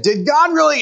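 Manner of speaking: high, sly tempter voice; hammed-up serpent asking a loaded question. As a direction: needle her like a crafty snake. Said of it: "He would have said".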